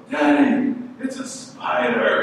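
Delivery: high, loud cry of alarm; freaking-out kids. Retold or imitated. Young sons spot a spider and call their dad, mock panic. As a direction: imitate panicked children calling for Daddy. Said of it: "they're freaking out".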